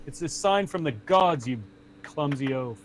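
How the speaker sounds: lightly acted scolding knight; mildly indignant put-down; Sturm. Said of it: "He's like".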